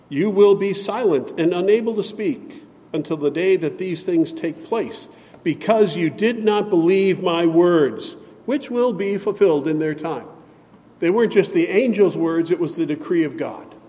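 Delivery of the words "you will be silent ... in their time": solemn angel voice. Retold or imitated. Angel Gabriel pronounces a judgement.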